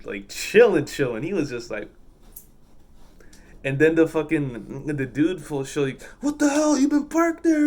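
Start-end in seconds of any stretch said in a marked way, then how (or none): 6.2-7.7 very high-pitched mock outrage; mock indignant trucker. Trucker confronting parked driver, high mock indignation. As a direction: imitate a fuming driver in a squeaky-high voice.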